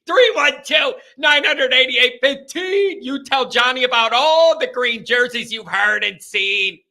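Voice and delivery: loud, high, sing-song jingle read; goofy. Shown as a demonstration. To viewers, repeating the call-in number in a goofy voice. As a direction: ham up the call-in number like a cheesy ad. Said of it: "I gotta do it goofy".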